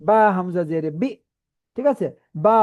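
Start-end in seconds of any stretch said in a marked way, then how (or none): 0.0-1.1 "বি" with a catch in the throat; "বা হামজা জের বি" with a glottal stop; voice stopped at hamza. Shown as a demonstration. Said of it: "আওয়াজ আটকে উচ্চারণ করতে হয়".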